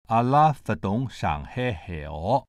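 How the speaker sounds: slow Shanghainese phrase with each tone marked. Shown as a demonstration. Lecturer demonstrating Shanghainese from diagram, slow careful tones. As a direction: say it slowly in Shanghainese, syllable by syllable. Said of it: "We could demonstrate Shanghainese".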